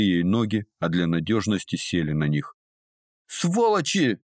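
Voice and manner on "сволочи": screaming. A narrator's reading. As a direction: scream it while pinned down. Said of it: "вопила она". (очень высокий громкий вопль)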